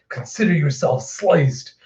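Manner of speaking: offhand, understated quote; casual. Retold or imitated. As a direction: toss it off coolly. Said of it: "just casually being like".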